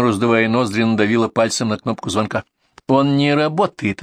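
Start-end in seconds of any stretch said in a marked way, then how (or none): 2.9-4.0 slow, gloating announcement. Acted. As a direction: draw it out with spiteful satisfaction. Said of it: "злорадно сказала дама".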